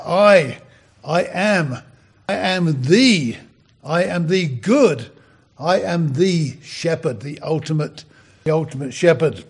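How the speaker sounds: each phrase slowly, leaning on a new word; slow, word-by-word emphasis on "I am the good shepherd"; slow emphatic meditation. Shown as a demonstration. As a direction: savour it word by word, stressing I, am, the, good. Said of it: "you just meditate on even those, that phrase there".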